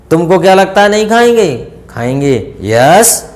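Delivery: usual speaking voice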